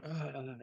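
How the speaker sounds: soft, imitated groan of someone hurt; groggy "ugh", softly acted; retold groan. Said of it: "you hear Omega just going".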